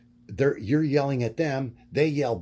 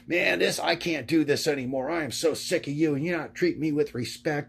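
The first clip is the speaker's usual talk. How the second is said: imitated angry girlfriend; 3 semitones higher than usual. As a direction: mildly act out a fed-up girlfriend's complaint. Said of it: "she's yelling at me".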